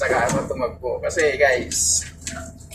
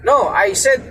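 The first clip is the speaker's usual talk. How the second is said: much higher, somewhat louder mock shout; imitating the boss yelling his orders; retold shouting; 6 semitones higher, 4 dB louder, slower than usual. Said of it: "Tapos sigaw siya".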